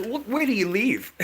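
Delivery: a nosy, put-on girly asking; a man mimicking a woman sizing up his prospects; mock woman.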